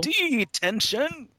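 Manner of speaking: hosts mock the teacher, high drawn-out call; teacher's detention call. Hosts joke about Mister Kaplan, drawn-out teacher's call.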